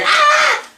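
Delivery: short, very high squeal; high mock scream. Announcing Ziggler coming out to answer, high mock scream. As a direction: let out a shrieked cartoon cry. Imitated scream as wrestler enters.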